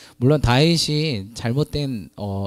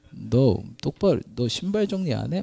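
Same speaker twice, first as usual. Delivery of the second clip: mock scolding husband. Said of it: "막 가부장적".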